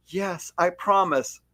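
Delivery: lightly voiced parent, slowly soothing the child; reassuring movie parent. Movie parent promising child before work, lightly acted reassurance. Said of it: "a mom or a child is going off".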